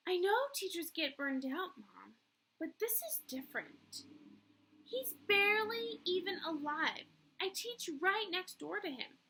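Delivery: lightly voiced earnest young teacher; a hint of a fretful young woman.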